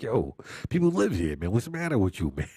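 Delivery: scolding through laughter; playful chiding while laughing; laughing mock scolding.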